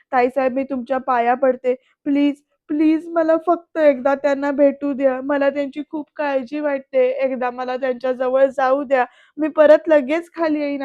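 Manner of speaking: imitated desperate pleading, mildly tearful; retold tearful begging. Anandi begs at the aunt's feet, retold tearful begging. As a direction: beg for just one chance. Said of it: "असं रडत रडत गयावया करते".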